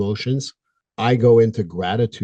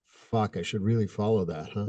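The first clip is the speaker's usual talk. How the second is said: muttering to self; 9 dB quieter than usual. Retold or imitated. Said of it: "I'm going".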